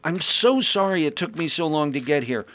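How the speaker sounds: relieved greeting. Acted. Greeting friends after ordeal.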